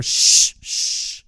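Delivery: unvoiced hush; imitated shush. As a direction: hush them sharply. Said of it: "you just hear".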